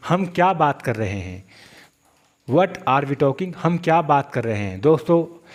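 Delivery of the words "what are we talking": very slow, every word stretched; teacher's drawn-out example; slow demo. Shown as a demonstration. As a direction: drill it slowly for learners. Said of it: "मैंने इसके आगे what लगा दिया".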